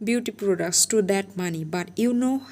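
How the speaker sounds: bitter scornful woman venting her grievances; spiteful stepmother rant. Acted. Stepmother lashing out at her husband's family in scorn. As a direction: sneer every complaint at the family, building in spite. Mrs Kim ranting at family.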